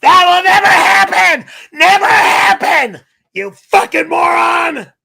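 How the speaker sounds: screaming high and loud, voice cracking with rage; furious shout. Real, not acted. Streamer furious at a donation about his car, screaming. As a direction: rage at the chat, yelling at full force. Enraged at kissing booth donation.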